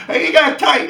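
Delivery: high, loud laughter into the words. Real, not acted. Laughing while telling viewers about the fight. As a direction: crack up at the memory.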